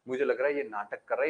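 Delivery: quick muttered aside ये नाटक कर रहा है; muttered suspicion. Acted. Mishra ji mutters his suspicion, fast and low. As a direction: say it fast under the breath, suspicious. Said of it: "बोले".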